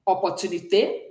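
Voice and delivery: "opportunité" said in French, ending in a sharp é; French pronunciation. Shown as a demonstration. Teacher gives an example of the acute accent, French pronunciation. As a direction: say "opportunité" with a closed final eh. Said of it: "then it sounds like eh".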